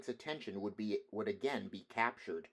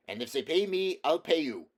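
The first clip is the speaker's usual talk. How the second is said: higher, louder bitter jab; bitter retort; 6 semitones higher, 8 dB louder than usual. A narrator's reading. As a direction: spit the promise back at them. Poet to players.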